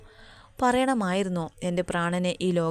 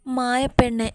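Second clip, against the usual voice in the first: affectionate call, lifted higher and louder; loving call; 6 semitones higher, 5 dB louder, slower than usual. A narrator's reading. Lover's remembered call to Maya, full of love. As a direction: call out fondly, pitched up. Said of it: "സ്നേഹം നിറഞ്ഞ സ്വരം".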